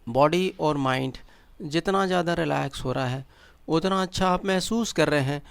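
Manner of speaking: measured meditation guide with long pauses; guided meditation. Acted. Guide leading listeners into breath awareness and relaxation, guided meditation. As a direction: guide them step by step, leaving silences between instructions.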